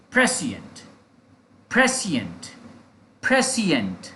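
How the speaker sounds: "प्रेसिएंट" as PRE-si-ent, each repeat falling; pronunciation drill. Shown as a demonstration. Teacher repeating for learners to copy, "प्रेसिएंट" as a falling model word. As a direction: drill "प्रेसिएंट" with stress first and a pause after each. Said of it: "that is the pronunciation".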